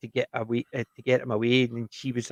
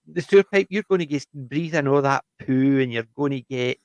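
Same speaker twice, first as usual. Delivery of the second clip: imitating a smart-aleck kid, pitched up at first. Girl teasing the boys with a poo joke, smart-aleck. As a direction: put on a bit of a know-it-all kid. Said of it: "being a smart aleck".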